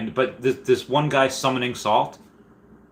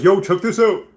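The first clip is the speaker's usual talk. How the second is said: high, loud hype; hyped call-out; 10 semitones higher, 5 dB louder than usual. Pretend. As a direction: call it out to the crowd. Voicing chat message.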